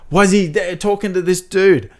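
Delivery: retold astonishment. Viewer retells spotting Bill, mock bewildered. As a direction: act out baffled surprise, building. Acts out own surprise while watching.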